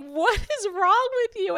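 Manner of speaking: high, mock-incredulous husband voice; husband asking. Husband Billy asking his sobbing wife what's wrong, incredulous. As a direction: imitate him asking in disbelief.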